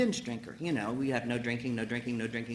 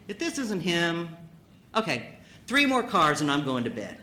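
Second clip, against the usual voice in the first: laughing thought; 2 semitones higher, 3 dB louder than usual. Retold or imitated. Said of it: "you think".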